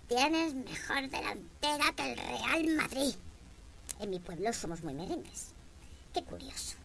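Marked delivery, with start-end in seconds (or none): 0.1-3.1 slow, mock-leering football compliment; football catcall. Comedian mimicking a football fan's catcall, slow and leering. 6.1-6.8 breathy whispered aside. Real, not acted. Comedian whispering an ironic aside to the audience.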